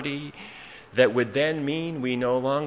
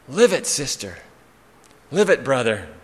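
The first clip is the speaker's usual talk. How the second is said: firm, louder call at usual pitch; pulpit exhortation; 5 dB louder than usual. Acted. Preacher answering from the pulpit to the congregation, firm exhortation. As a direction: urge the congregation with two measured, punched phrases. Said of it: "a voice from the pulpit saying".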